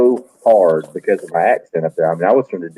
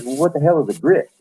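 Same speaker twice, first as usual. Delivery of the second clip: higher, mock-baffled waitress; puzzled waitress; 7 semitones higher than usual. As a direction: pitch it up like the bewildered waitress. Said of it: "She goes".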